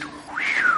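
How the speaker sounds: whistled airy whoosh; breathy flare-up sound effect. Acted. Speaker imitates a couple's argument igniting, airy whoosh. Money topic sets off a fight.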